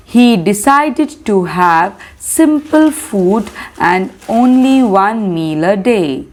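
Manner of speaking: put-on slow, measured reading for young pupils; slow classroom dictation pace; textbook read-aloud. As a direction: read it out word by word so children can follow. Teacher reads textbook aloud.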